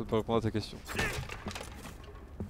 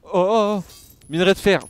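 loud, high exclamation; excited discovery; 6 semitones higher, 6 dB louder than usual. Real, not acted. Gamer spotting iron ore, excited. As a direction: call out high and loud at a lucky find.

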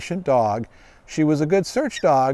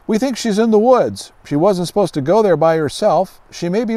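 higher, louder voice of anxious parents; worried neighbors; 4 semitones higher, 4 dB louder than usual. Acted. Neighbors asking the dog's owner for help, worried and pleading. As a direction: plead like parents missing their girl.

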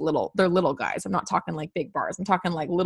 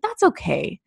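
put-on gentle little kid voice; 6 semitones higher than usual. Shown as a demonstration. Tired adult soothing herself like a small child, gentle and reassuring. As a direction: comfort yourself like you would a little kid. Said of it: "like, little kid voice".

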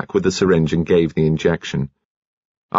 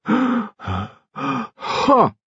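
breathless gasp. A narrator's reading. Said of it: "laboured breathing".

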